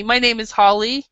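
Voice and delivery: "Holly" said with an open American "ah", like "Hah-lee"; American accent, "Holly" as "Hah-lee". Shown as a demonstration. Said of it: "that's the American way to say it".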